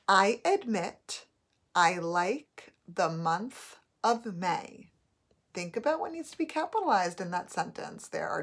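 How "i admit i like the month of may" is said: slow, clear dictation, loud and deliberate. Shown as a demonstration. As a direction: read it out word by word for spelling. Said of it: "Your first sentence is".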